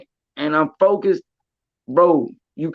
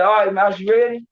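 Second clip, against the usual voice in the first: mock eager fighter; 4 semitones higher than usual. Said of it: "he said".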